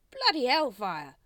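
loud, drawn-out amazed oath; loud disbelieving guard; astonished guard. A narrator's reading. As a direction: swear in amazement, slow and high.

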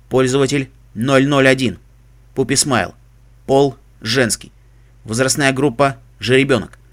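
even, mechanical diagnostic readout; robot voice. Acted. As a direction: report it like a machine. Suit computer running diagnostics. (механический голос)

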